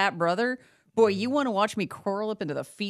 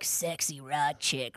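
sexy rock chick voice; 5 semitones lower, 7 dB quieter, much slower than usual. Retold or imitated. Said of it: "what was the sexy rock chick voice".

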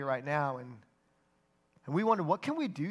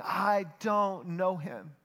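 imagined yelling; much slower than usual. Acted. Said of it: "perhaps hear Peter yelling".

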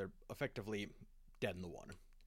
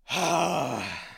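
a sudden, much louder, higher ah; loud surprised ah; 7 semitones higher, 15 dB louder than usual. Acted. Sigismund reacting to Garrow's demand, loud startled ah. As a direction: blurt it out as if caught off guard. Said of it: "Sigismund is like".

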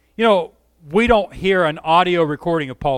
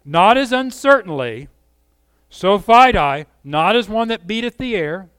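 ringing and louder; passionate; 4 semitones higher, 5 dB louder than usual. Shown as a demonstration. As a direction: deliver it with conviction. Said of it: "the passion in Paul's voice".

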